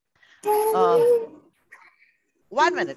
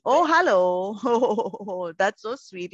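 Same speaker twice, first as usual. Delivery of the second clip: pleasantly surprised; 3 semitones lower, 3 dB louder, much slower than usual. Real, not acted. Child shows mother's photo.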